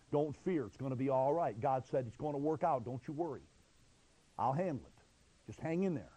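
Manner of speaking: low, soft word of comfort; calm them quietly; reassuring. Acted. God comforting His frightened people, low and reassuring.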